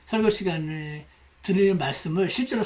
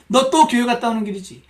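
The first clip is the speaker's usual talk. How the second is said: loud, higher scolding; nagging; 4 semitones higher, 6 dB louder than usual. Acted. Aunt scolding niece back from church, nagging. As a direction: lay into them like a nagging aunt. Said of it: "고모가 영락없이 잔소리를 퍼붓기".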